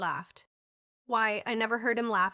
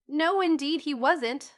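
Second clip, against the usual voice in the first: emphatic; 6 semitones higher, 5 dB louder, slower than usual. A narrator's reading. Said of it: "said Jasper".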